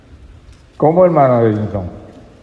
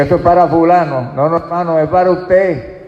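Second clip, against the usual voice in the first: raised, higher preaching voice; emphatic exhortation; 5 semitones higher, 5 dB louder than usual. Real, not acted. Preacher correcting listeners who pass the message on, emphatic exhortation. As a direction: press it home, louder and higher.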